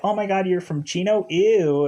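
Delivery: snobby disgust. Retold or imitated. Summer scorning Ryan's hometown, snobbish mock disgust. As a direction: sneer down at Chino.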